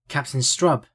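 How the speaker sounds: lightly joyful, narrated greeting. A narrator's reading. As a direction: greet him with a touch of joy. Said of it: "greeted the man in a joyful tone".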